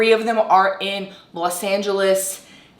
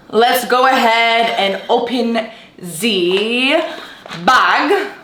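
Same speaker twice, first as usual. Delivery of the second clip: put-on German accent; 3 semitones higher, much slower than usual. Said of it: "I tried to do a German accent".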